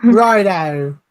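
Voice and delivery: a bad put-on mock accent; hammed-up faux cockney; Dick Van Dyke voice. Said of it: "it's the Dick Van Dyke voice again".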